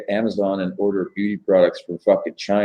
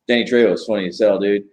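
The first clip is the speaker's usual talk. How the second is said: ordinary talk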